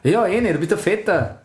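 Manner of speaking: hammed-up Austrian accent, cocky. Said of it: "Mach Mario Götze mit österreichischem Akzent".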